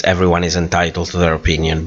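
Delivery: fast, rote repetition of a stock phrase; quick dismissive recitation; rattled off. Shown as a demonstration. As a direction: reel it off quickly like a cliché. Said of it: "we always say this".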